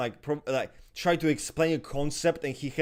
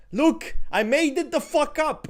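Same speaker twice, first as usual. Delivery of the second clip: mocking impression of Ibrahim; 11 semitones higher, 7 dB louder than usual.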